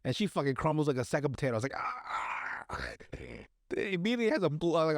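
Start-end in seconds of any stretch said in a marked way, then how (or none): 1.8-2.7 high, soft airy "ah"; mock pained cry. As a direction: imitate someone crumpling from a hit. Acts out her crumbling when hit.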